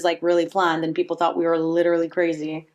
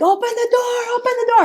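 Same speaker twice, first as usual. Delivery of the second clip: imitating herself begging in the rain; mock pleading yell; 14 semitones higher than usual. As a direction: call up at the door, desperate. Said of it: "I'm like".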